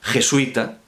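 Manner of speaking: "jesuita" as je-SUI-ta, ui in one syllable; "jesuita" said with a diphthong; written-form pronunciation. Shown as a demonstration. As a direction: glide quickly through the ui in "jesuita". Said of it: "como si pronunciáramos".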